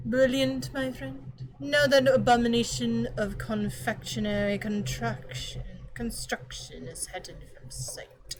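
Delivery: light put-on British accent, barely shifted. Shown as a demonstration. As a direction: read it as a stiff British butler would, lightly. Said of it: "with a British accent".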